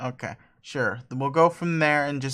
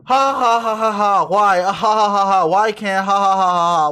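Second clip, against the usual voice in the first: louder, can't-stop giggling fit; helpless laughter; 3 semitones higher, 6 dB louder than usual. Acted. Dave laughing at his old selfies, helpless laughter. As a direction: laugh until you can't breathe. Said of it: "Why can't I stop laughing?".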